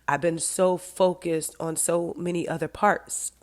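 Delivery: half-whispered as emotion catches; choked up. Real, not acted. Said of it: "Oh, this is making me emotional".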